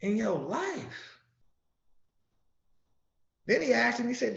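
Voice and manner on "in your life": a hint of a higher, gentle questioning Jesus. Jesus asking poor toilers, lightly voiced and gentle. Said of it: "Jesus say".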